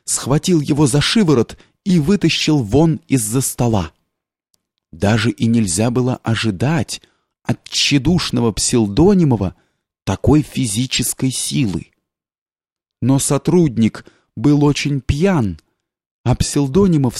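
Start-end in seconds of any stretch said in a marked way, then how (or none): none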